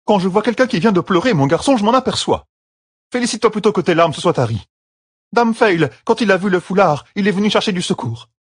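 a lightly voiced Madician accent, protesting hotly; a vehement Madician man, the accent only hinted; thick Madician accent. A narrator's reading. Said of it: "accent de la Madicia à couper au couteau". (accent de la Madicia, protestation véhémente)

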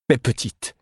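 calling out to the swarm; an urgent plea to her bees. A narrator's reading.

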